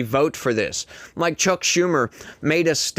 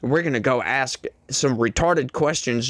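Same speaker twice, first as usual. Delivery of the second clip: mocking. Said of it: "be like".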